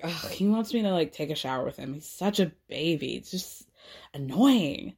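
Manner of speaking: lightly imitated fed-up girlfriend, dropping low; mock eye-rolling exasperation. Girlfriend complaining to her friends about boyfriend, mock exasperated. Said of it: "she rolls her eyes like".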